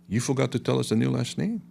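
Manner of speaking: a hint of a child's questioning rise; young girl. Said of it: "Young girl standing on the side".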